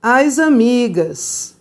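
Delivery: slow, deliberate teacher model of Encontramos as amigas; slow model sentence. Shown as a demonstration. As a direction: lay out each word slowly for the class. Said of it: "O verbo vai terminar em S".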